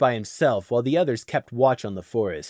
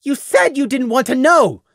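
stubborn, raised insistence; 10 semitones higher, 6 dB louder than usual. Acted. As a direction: dig in and repeat it. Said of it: "Prey repeated stubbornly".

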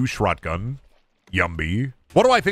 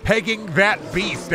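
put-on voice; 8 semitones higher, slower than usual. Mock line in a put-on voice.

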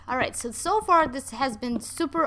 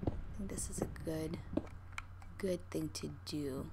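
quick hushed whisper; 6 semitones lower, 8 dB quieter, faster than usual. Real, not acted. Gamer whispering plans to viewers, quick hush. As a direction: whisper it fast so nobody hears. Whispering while digging in cave.

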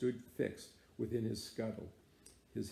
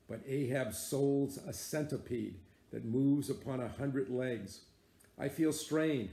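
grim sea captain holding forth; a lightly voiced old captain, commanding and brooding; Ahab declaiming. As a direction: lay it down like an iron decree. Ahab addresses Starbuck and crew.

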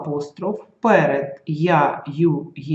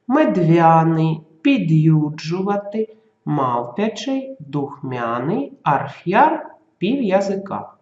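clear, careful pronunciation. Shown as a demonstration. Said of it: "чітко їх вимовити".

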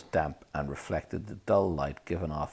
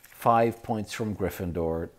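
tense; 3 semitones higher, 5 dB louder than usual. Acted. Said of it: "Percy said tensely".

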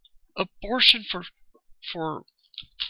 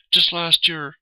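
angry emphasis; 6 dB louder, slower than usual. Real, not acted. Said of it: "I'm just pissed off".

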